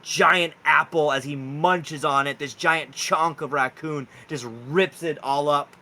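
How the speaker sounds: slow, deliberate scene setting; game master narration. Acted. Game master reveals giant raccoons at the campfire, slow narration. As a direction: draw out the reveal piece by piece.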